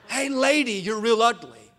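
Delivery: high mocking opening that drops; squawky quoted bird taunt; imitating the parrot. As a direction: mimic a jeering parrot. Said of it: "what does he say?".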